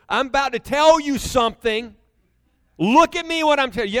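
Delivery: put-on stern-parent emphasis to a child; emphatic. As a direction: lean hard on TELL and LOOK. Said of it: "Like, you're emphasizing".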